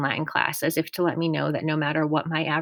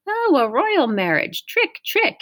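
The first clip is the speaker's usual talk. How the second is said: high, loud crowing over a card win; gleeful yelling; 11 semitones higher, 6 dB louder, slower than usual. A narrator's reading. Camp director wins a trick at cards, cackling yell. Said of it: "Mister D yelling".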